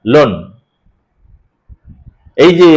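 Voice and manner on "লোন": "লোন" isolated, closing firmly on n; closed syllable. Shown as a demonstration. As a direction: say "লোন" alone with the tongue resting on the final n. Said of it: "জিভটা আমার গিয়ে ঠেকে যাচ্ছে".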